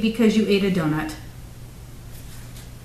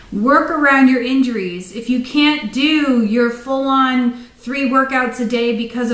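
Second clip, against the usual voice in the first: soapbox pep talk. Real, not acted. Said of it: "I'm off my soapbox".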